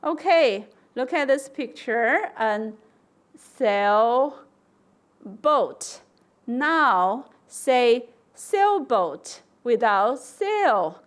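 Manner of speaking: slow, coaxing teacher voice; slow coaxing prompt for a child; teacher prompt with picture. Shown as a demonstration. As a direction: point at the picture and draw it out slowly. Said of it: "You can say".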